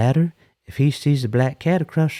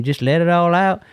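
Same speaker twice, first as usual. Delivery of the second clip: quoting Clyde; 5 semitones higher than usual. Retold or imitated. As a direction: toss off Clyde's old saying. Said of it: "Clyde used to say".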